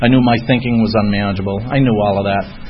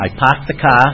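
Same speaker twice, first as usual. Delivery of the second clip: Boston accent; 3 semitones higher than usual. Shown as a demonstration. Telling the room how they parked, in a showy Boston accent. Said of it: "ready for the Boston accent".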